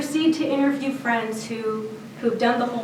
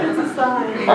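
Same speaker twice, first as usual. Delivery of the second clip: laughing; 3 dB louder than usual. Real, not acted. Laughing at the coincidence.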